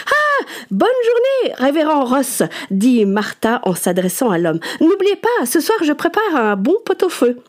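high, gushing landlady voice; haughty aristocratic french. A narrator's reading. Martha hails the reverend.

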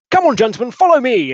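high, loud call to follow; rallying call. Acted. Lusk leading the gentlemen away, calling out. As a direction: call out briskly to the group.

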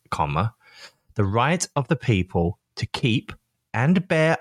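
slow, careful reading aloud with spoken punctuation; dictating. Shown as a demonstration. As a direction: read it out word by word, saying each comma. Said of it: "very simply reads".

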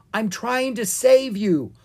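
high, loud exasperated shout. A narrator's reading. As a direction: shout back in protest. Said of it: "Owen shouted".

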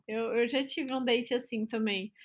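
hiccuping between words; with hiccups. Real, not acted. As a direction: talk through the hiccups. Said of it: "Temos uma bêbada aqui soluçando".

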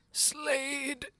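gasping. Acted. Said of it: "the operator gasps".

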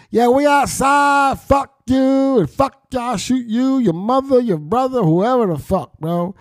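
high, slow, shouted mock tough-kid taunt; mock kid threats. Mocking ignorant kids shouting threats, high hammed-up yell. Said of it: "Got all the kids programmed with the ignorance".

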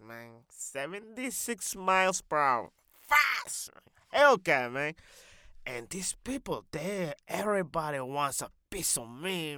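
put-on accented loudmouth, punching words in bursts; boastful comic character. Character boasting of speeding in his Hellcat, animated and cocky. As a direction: brag with swagger in a put-on accent.

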